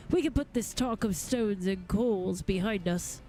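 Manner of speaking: lightly voiced courtly gentleman, mildly affronted; a touch of wounded dignity; formal gentleman goldsmith. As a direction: coolly dismiss an insolent tradesman in formal speech. Reads a game figure's dialogue.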